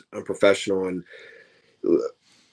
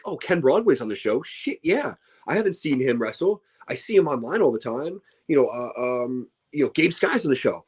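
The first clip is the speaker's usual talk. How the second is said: excited fan; 5 semitones higher than usual. Pretend.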